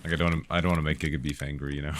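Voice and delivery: normal talking voice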